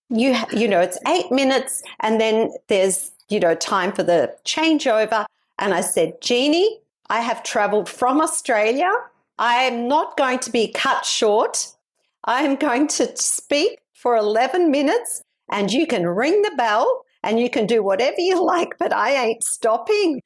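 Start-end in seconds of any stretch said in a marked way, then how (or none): 0.1-5.2 lightly faked American accent; poor American accent. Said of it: "This is my poor American accent". 6.2-20.2 emphatic retold stand-off; defiant. Retold defiant stand against being cut short.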